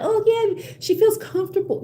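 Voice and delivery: high, sing-song mock of a clueless guy. Imitating guys who excuse the photos, mocking. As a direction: parody him, eye-rolling.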